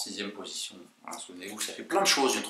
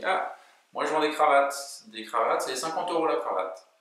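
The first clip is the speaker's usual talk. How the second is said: tie seller; 4 semitones higher than usual. Acted. Tie seller in desert joke.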